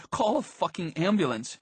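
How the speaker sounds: high, urgent demand; distraught demand. A narrator's reading. Crying narrator begs the others for help, distraught. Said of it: "I was crying and saying to call an ambulance".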